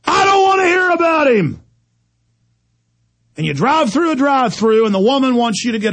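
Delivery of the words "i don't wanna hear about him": much higher, fed-up shout; angry shout. Real, not acted. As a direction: explode with disgust. Rant about a singer.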